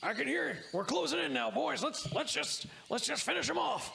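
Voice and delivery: high-pitched henchman voice; rally the gang in a high character voice; Jonesy. Acted. Guard tells his boys they are closing in, high-pitched and eager. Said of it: "Jonesy is like".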